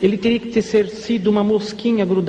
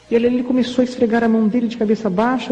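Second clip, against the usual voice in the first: ordinary talk, nothing marked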